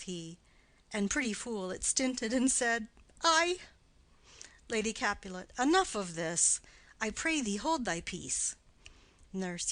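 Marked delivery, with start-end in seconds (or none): 3.2-3.6 put-on high, loud little child's aye; toddler's voice. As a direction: pipe it up like a small girl. Toddler answer again.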